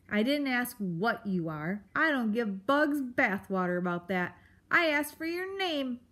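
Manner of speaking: mildly gruff, impatient creature; testy correction, pitch climbing at the end; Aerith. Acted. Grump insists on hearing a name, impatient.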